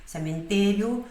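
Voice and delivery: Cementerio said slowly, each syllable clear; slow teacher model; slow model word. Shown as a demonstration. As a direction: spell it out slowly in sound.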